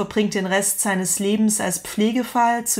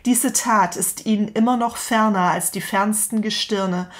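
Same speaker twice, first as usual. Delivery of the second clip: dramatic reading. Acted. Reads Nietzsche's parable aloud.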